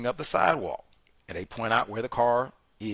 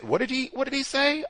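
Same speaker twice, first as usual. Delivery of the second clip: much higher, puzzled question; mock high query; 12 semitones higher than usual. Lawyer asking what the witness said, high. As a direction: ask it in a squeaky voice. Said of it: "they said".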